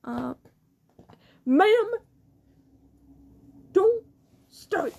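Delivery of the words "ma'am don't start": sharp warning. Real, not acted. Scolding someone off-mic.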